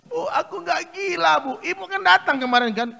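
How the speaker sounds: loud, high insistence; protesting son. Acted. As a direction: plead to be believed. Son insists he is not mad.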